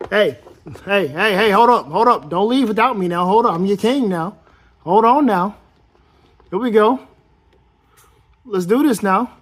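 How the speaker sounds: hollering hold up, don't leave me; calling out. Pretend. King toy calling after his troops, loud mock holler.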